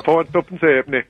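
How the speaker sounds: echoed Yorkshire dialect price; Yorkshire accent. Shown as a demonstration. Guest echoing host's Leeds market price, Yorkshire accent. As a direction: copy the Leeds seller's Yorkshire vowels. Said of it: "Well, well done".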